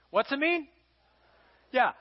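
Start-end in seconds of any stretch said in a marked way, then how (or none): 0.1-0.7 higher prompt coaxing an answer; a higher, coaxing repeat of "What's it mean?"; questioning prompt. Real, not acted. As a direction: toss the question back to the room.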